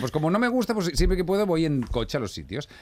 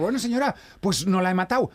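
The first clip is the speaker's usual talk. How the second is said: higher-pitched, mildly protesting comeback; mild mock arguing; 6 semitones higher than usual. Driver answers the lady he nearly hit, mild mock protest. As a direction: reason with her, slightly exasperated. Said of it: "Y ahí discutiendo".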